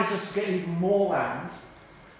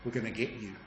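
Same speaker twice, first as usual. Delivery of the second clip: a hushed, sinister devil, much softer; devilish whisper; 4 semitones lower, 15 dB quieter than usual. Retold or imitated. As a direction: hiss it like a scheming devil. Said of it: "I thought".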